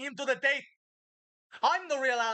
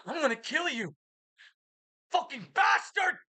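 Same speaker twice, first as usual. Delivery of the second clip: angry curse; 3 semitones higher than usual. Real, not acted. Threatening the voice in head.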